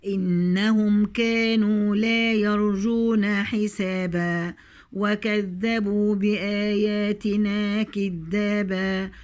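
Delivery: slow tajweed chant with long held vowels; Quran recitation. Shown as a demonstration. Teacher recites the verses to the students, slow chant. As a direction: stretch every madd like a reciter.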